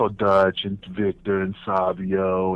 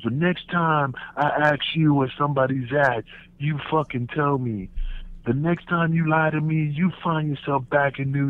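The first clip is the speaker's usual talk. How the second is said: stern boss warning; 4 semitones higher than usual. Retold or imitated. Dutch threatening him.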